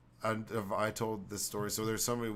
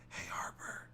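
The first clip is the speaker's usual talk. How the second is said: unvoiced whisper, low and creepy; creepy whispered parrot call; 3 semitones lower, 8 dB quieter than usual. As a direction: breathe it like a parrot in the dark. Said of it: "it whispers it at night".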